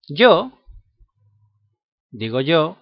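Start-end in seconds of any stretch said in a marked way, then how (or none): 0.1-0.5 "Yo" called out high and loud as a sample sound; loud demo "yo". Shown as a demonstration. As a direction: hit "Yo" loud to show the class. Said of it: "puedo decir también el pronombre yo".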